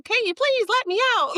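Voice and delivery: tiny inner voice. Pretend. Her tiny inner self begging to be let out, high and pleading.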